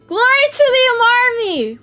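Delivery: loud high mock battle cry; hammed-up rallying shout. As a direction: proclaim it like a cult chant.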